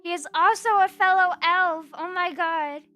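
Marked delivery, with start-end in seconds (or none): none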